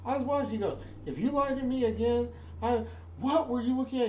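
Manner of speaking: barked shout, way up high and loud; high, loud drill instructor shout; drill instructor yell. Retold or imitated.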